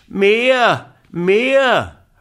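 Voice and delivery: put-on high, loud demanding cry of a child; shout. Little boy shouting to the moon, loud and high. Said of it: "schrie Häwelmann".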